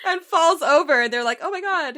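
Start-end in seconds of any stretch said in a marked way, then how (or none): 1.4-2.0 high, loud shocked gasp of words; hammed-up horrified reaction; mock alarm. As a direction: exclaim like a startled onlooker. Acting out onlookers reacting to fall.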